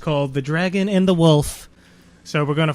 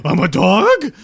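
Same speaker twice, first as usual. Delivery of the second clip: high silly voice; 4 semitones higher, 7 dB louder, slower than usual. Pretend.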